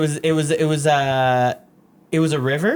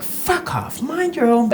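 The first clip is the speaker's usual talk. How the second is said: attempted British woman telling someone off; half-successful British accent scolding; bad British accent; 10 semitones higher, slower than usual. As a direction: try a shaky-quality British accent, badly faked. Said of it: "I can't do a British accent".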